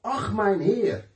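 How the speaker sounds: slow, drawn-out cry to the Lord. Acted. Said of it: "dan schreeuwt hij het uit". (uitroepen, langgerekt)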